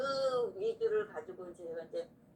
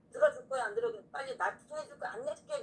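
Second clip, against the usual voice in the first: retold yelling; 4 semitones higher, faster than usual. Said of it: "소리를 버럭버럭 질렀어요".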